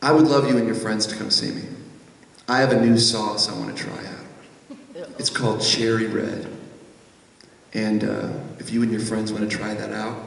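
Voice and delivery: a big Southern host inviting them warmly; deep Southern pitmaster. Retold or imitated. Owner voiced on the phone.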